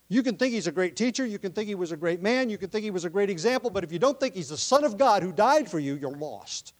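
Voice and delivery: rising preaching. Real, not acted. Preaching builds.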